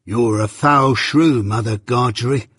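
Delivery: slow, growling insult; growled insult. Acted. Journeyman insulting master's wife, growled. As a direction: growl it out slowly. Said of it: "growled the journeyman".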